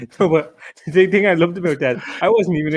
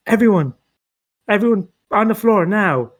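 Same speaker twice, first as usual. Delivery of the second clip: robber voice. Acted. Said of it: "we rush into a bank and".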